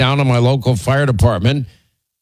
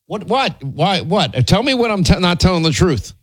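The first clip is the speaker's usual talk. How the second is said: indignant challenge; 5 semitones higher than usual. Real, not acted. Arguing with husband on air.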